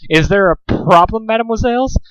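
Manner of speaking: put-on a French waiter with a thick accent. A narrator's reading. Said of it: "thick accent from France".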